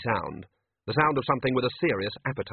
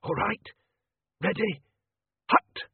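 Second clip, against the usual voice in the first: shout; 10 semitones higher, slower than usual. Acted. Wizard shouting a battle cry.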